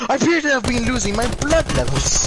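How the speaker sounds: high, hammed-up posh British voice; posh British dying. Posh Brit dying from an attack, high mock-polite distress. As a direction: announce your death with exaggerated posh British manners. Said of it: "an extremely posh way of dying".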